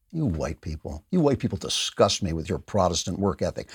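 a low, quiet sneer of disgust; mock accuser. Host mocking the critics' disgust in a low, soft sneer.

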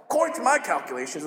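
fast nerdy dork voice; a hint of a nerdy Gideon; Gideon's nerdy voice. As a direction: rattle it off like a know-it-all. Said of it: "I don't know why I do that voice".

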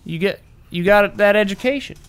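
put-on lightly tried Kansas accent. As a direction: practise a Southern Kansas accent in small talk. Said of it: "We're just working on accents".

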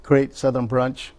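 normal talking voice

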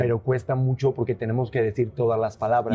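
careful, fully articulated neutral accent; neutralized Spanish accent. Real, not acted. Spaniard showing how hard neutral speech is, careful neutralized accent. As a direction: pronounce every word, keeping the Spanish lilt out. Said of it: "estás bien concentrado de que no se te salga nada".

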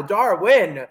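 "Darwin" said the way its owner says it, carefully; proper pronunciation of the name. Shown as a demonstration. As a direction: say "Darwin" the correct native way, not Jersey. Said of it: "That's how you have to say it".

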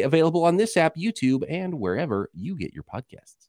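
bright podcast promo voice; promo read. Acted. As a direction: announce it like a network promo. Reads a show promo.

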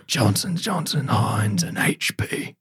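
Billy Butcher. Retold or imitated. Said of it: "Do Your Best Billy Butcher impression".

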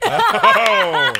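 high, loud laughing oh. Real, not acted. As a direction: burst out laughing. Delighted laugh.

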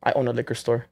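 casual put-on Middle Eastern accent. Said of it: "like, a Middle Eastern accent".

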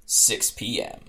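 measured, dramatic read-aloud; story narration. A narrator's reading. Host reading the game's opening to co-hosts, dramatic story narration. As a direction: narrate it with deliberate pauses and falling endings.

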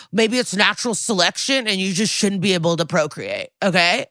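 lightly voiced Joe Rogan, shrugging bro logic; a hint of a podcast bro dismissing it; Joe Rogan impression. Host mocks a detective as a Joe Rogan type, lightly voiced. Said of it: "he's very Joe Rogan".

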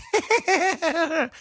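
high mock giggle; imitated nervous laugh. Host mimics pundit getting wrecked on his show, nervous laugh. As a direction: fake an uncomfortable high laugh. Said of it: "I love how he laughs".

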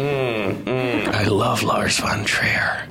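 slow whispered confession; slow, creepy whisper of devotion. Pretend. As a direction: breathe it out creepily. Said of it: "that sounded really creepy".

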